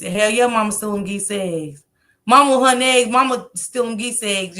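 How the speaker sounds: loud, excited bragging; hyped up. Real, not acted. Bragging to the livestream about her eggs, loudly hyped. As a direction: hype yourself up. Hyping herself up.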